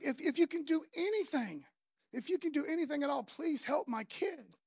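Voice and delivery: acted appeal for help, drawing out the please; a parent begging, mildly desperate; pleading father.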